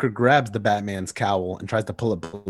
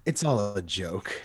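quiet; 3 semitones lower, 8 dB quieter, slower than usual. Acted. Joker turns grim.

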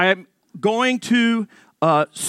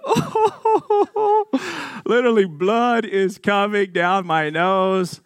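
shocked yelp; 3 semitones higher, much slower than usual. Retold or imitated. Punched, voicing shock.

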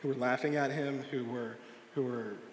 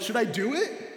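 high, loud eager question; acted excitement; 8 semitones higher, 6 dB louder than usual. Excited boy asking his dad about the dare, high and loud. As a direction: imitate an eager kid asking permission. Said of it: "he's getting excited".

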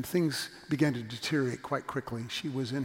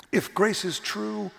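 higher, louder, slow "If grace is true"; emphatic; 6 semitones higher, 4 dB louder, slower than usual. Real, not acted. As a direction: proclaim the refrain. Preached refrain.

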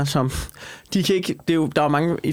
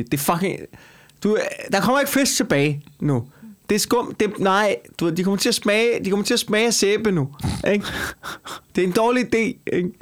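higher, heated telling-off; exasperated reporter; 5 semitones higher than usual. Retold or imitated. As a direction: scold them like a fed-up reporter. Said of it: "burde jo sige".

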